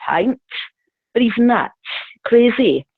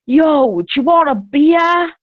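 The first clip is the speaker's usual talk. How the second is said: mock shout over music; 4 semitones higher, 3 dB louder, slower than usual. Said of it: "screaming now over the music".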